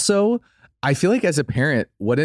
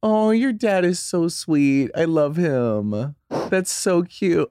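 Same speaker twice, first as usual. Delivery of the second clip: moved outcry; 12 semitones higher, slower than usual. Real, not acted. Friend moved by sweet story.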